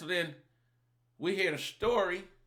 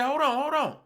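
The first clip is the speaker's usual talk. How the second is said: loud, high warning call; 8 semitones higher, 8 dB louder than usual. Retold or imitated. Warning her loudly that a Rottweiler is out back. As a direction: shout it through the house. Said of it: "I say".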